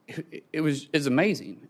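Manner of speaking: real emotion welling up as he speaks; fighting back tears, softly; choked up. Real, not acted. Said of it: "dang it, I hate getting emotional".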